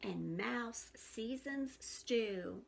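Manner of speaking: hushed, slow bedtime-story narration; storybook reading. A narrator's reading. Teacher reading a bedtime story to young listeners, hushed. Reads picture book aloud.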